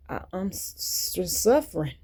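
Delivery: breathy broken whisper, struggling to get it out; real suffering, whispered and broken; 1 halting whisper of suffering. Real, not acted. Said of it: "I'm suffering".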